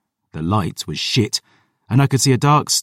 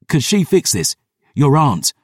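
urgent questioning; 5 semitones higher than usual. Acted. Urgent question to dying Phoebe.

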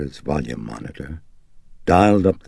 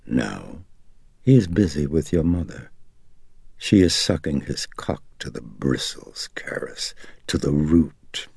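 lightly voiced gloating demon; taunting demon. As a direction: savour the obscene taunt, partly whispered.

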